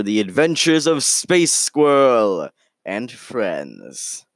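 theatrical series intro, falling away at the end; show title announcement. Acted. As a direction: announce the show's title with drawn-out fanfare.

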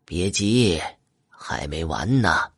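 calm him down quietly; reassurance. A narrator's reading. Beggar reassures the kneeling shop owner.

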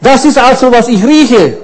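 mock sheep voice with a chuckle; other sheep's joke line. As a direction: play the sniffing sheep for a laugh. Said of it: "Und die andere sagt dann".

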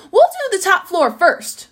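high, loud call from above; shouting down. A narrator's reading. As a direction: call down to someone far below. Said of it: "the giraffe shouted down".

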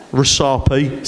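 Rusapi said in a light Cockney accent. Shown as a demonstration. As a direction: give Rusapi a playful Cockney twist. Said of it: "Say it like a Cockney".

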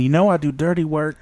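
husky dancer line with a breath at the end; mock seductive whisper-tone; breathy sultry stripper quote. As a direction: seduce him, finish on a breath. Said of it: "she even hit that breath at the end".

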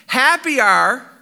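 slow, drawn-out opening; slow tryout. Shown as a demonstration. Preacher trying out the paraphrase, drawn out slowly. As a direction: test the words slowly. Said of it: "I'll read it for you".

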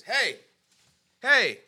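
high-pitched mock call to get attention; imitated shout. Host recapping guest's cop story, imitating a shout. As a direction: call out like a retold stranger. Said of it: "He hears somebody shout at him".

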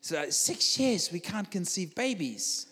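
slow, stammering mock-tearful confession; imitated crying. Crying man confiding in preacher about his wife, imitated tearful voice. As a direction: drag it out as if weeping. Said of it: "he starts crying and he goes".

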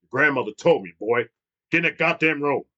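a hint of a stern, deep grandfather. Grandfather orders the boy to his room, lightly stern. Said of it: "super stern, deep voice".

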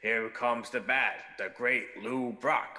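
slow, drawn-out gruff announcer call; lightly voiced old-time baseball broadcaster; a hint of a gravel-voiced play-by-play man; Jack Buck call. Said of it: "he would say".

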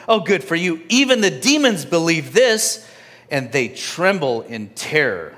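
mock the listener with biting sarcasm; scolding sarcasm from the apostle; sarcastic. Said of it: "nailing us really hard with sarcasm".

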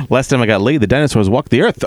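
laughing through a light borscht belt joke; a hint of an old Catskills comic. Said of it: "possessed by the Catskill comic".

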